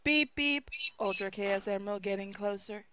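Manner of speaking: whispered beeping robot; robot voice, breathy and quiet. Acted. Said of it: "in a robot voice said".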